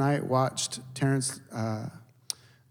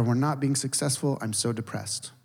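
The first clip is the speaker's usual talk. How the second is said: mock depressed; 4 dB quieter than usual. Contrasting happy vs depressed voice.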